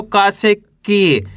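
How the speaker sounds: slow, long ee in की; drawn-out syllable. Shown as a demonstration. Teacher showing how का becomes की, vowel stretched. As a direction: hold की as it falls. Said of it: "खींच के इसका उच्चारण करना है".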